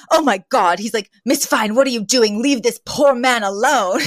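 mock scandalized scolding; indignant. Mister Sheffield defending Kurt from Miss Fine, indignant. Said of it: "He is so indignant on behalf of this man".

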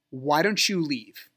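slow, pointed "Why don't you leave?"; imitating an ex's drawn-out challenge; retold challenge. Retold ex ordering him out.

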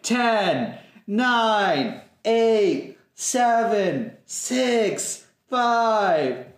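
countdown. Acted. New Year countdown.

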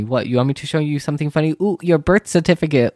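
mock roast of the laughing classmates; sassy comeback. Vlogger roasts classmates who laughed, sassy.

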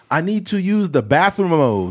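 mock Spanish with o endings; fake foreign language. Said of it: "they'll be like".

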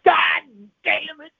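high-pitched, loud burst of exasperation; exasperated outburst. Acted. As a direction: blurt the curse high, starting loud. Explodes at the wrong answer.

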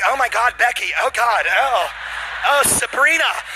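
hammed-up frantic squealing; panicked girls. Scared girls calling for each other's dads: mock panic. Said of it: "When white girls are scared, they're like".

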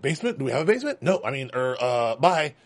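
flustered fake innocence; nervous bad liar. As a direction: stammer and flee the question. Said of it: "the worst liar".

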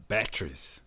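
put-on Batteries said as bat-trees in a light Jamaican accent. Mimicking a Jamaican islander saying Batteries, light accent. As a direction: clip Batteries into two quick Jamaican syllables. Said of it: "Da, da, da".

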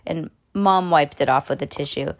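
ordinary delivery

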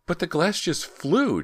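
very high, loud, slow dazed wail; frightened cry. A narrator's reading. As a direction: cry it out in shock. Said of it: "Ginny cried".

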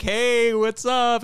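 high-pitched mock-cheery hello; friendly greeting back. Retelling his reply to the client, high friendly greeting. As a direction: return the greeting in a high, chirpy voice.

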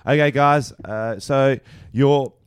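a hint of classroom voice; teacher addressing class. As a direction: call the class to attention like a substitute teacher. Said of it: "Say, I've, I've walked in".

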